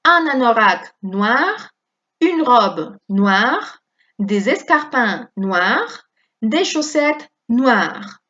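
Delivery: slow, clear teacher phrases; slow model reading. Shown as a demonstration. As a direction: read slowly for repetition. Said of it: "Todo va a sonar igual". (lectura lenta de modelo)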